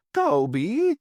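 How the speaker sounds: high, startled call; crying out. A narrator's reading. Landlady calling after Toby, alarmed cry. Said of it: "cried Missus Worth".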